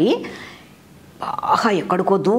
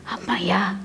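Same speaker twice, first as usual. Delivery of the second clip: relieved sigh; 6 dB quieter than usual. Acted. Crow relieved after drinking.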